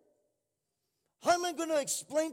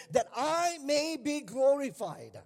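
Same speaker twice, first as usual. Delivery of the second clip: slow reading; 4 semitones higher, 4 dB louder, slower than usual. Shown as a demonstration. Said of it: "In other versions says".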